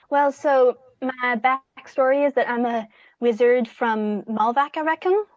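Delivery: lightly put-on Malvac accent; attempted Malvac accent. Wizard telling their backstory, in a tentative Malvac accent. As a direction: try on a Malvac accent, close but mild. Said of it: "That's really close to the accent".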